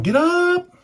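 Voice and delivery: loud, high retold yell; high-pitched shout of a dad waking his hungover son. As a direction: bark him awake like an angry dad. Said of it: "he's going".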